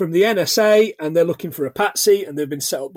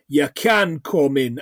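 slow, slightly lower mock Jamaican accent; 5 semitones lower, slower than usual. Retelling the woman's line at the window, mock Jamaican accent. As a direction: imitate her Jamaican accent, stretching each word. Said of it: "goes back to the American accent again".

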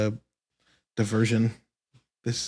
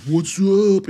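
breezy greeting; 8 semitones higher, 8 dB louder than usual. Retold or imitated. Friend returns after years.

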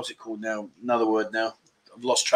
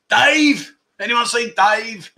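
a mock search, hollering for the missing mate; calling out; 6 semitones higher, much slower than usual. Playfully calling around the room for Dave, slow and drawn out.

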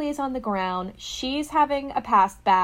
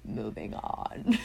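much lower, soft, slow witch voice; spooky witch voice; 11 semitones lower, 7 dB quieter, slower than usual. Shown as a demonstration. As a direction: drop into a deep witchy hush. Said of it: "me talking like this and me".

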